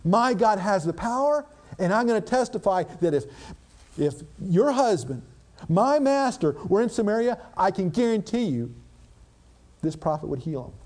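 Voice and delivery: a touch of the maid's bold faith; faith-filled servant girl. Retold or imitated. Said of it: "she had a faith that says".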